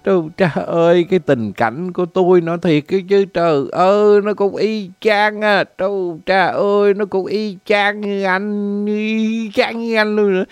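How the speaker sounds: whiny, put-on weepy reply; comic blubbering in sympathy; mock tearful. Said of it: "tôi mới méo máu tôi trả lời".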